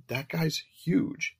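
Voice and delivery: slow, high-pitched whine; whining. A narrator's reading. Man objecting to partner about the neighbour, whining. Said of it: "he whined".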